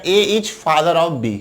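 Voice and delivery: each word read out slowly and evenly. Shown as a demonstration. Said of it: "समझिएगा यहाँ पे". (धीरे-धीरे पढ़कर)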